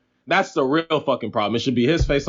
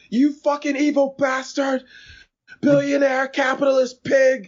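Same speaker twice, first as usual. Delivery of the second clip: crazy woman yelling; 11 semitones higher than usual. Retold or imitated. A crazy woman screaming at a billionaire on his walk to work. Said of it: "this crazy woman called me".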